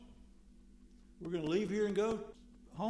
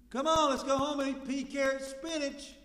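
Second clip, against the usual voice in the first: hammed-up eager invitation, higher; mock eager; 7 semitones higher, 5 dB louder than usual. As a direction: sell the baby food with mock cheer.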